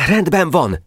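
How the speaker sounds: high, ready military report. A narrator's reading. Adjutant reporting back to his general, brisk report.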